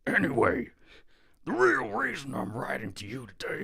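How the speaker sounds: high whispered wrestler voice. Acted. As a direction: start it as a breathy whisper. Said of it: "starting off as a whisper".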